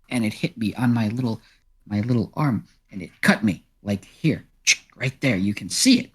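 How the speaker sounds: lightly voiced cat telling a war story; wounded storytelling cat. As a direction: recount a tiny injury with mild drama. Cat recounts chicken attack.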